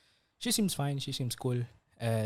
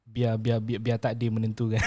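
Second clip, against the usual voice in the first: laughing; 5 dB louder than usual. Real, not acted. Laughing while saying it.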